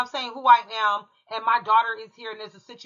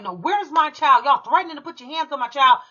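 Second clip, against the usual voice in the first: upset demand; 5 semitones higher, 3 dB louder than usual. Retold or imitated. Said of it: "So I was really upset".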